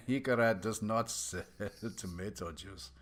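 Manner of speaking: put-on loud, hearty barkeep with an accent; jolly bartender. Bartender boasts of his cold Tej, loud and hearty. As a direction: play the proud tavern keeper.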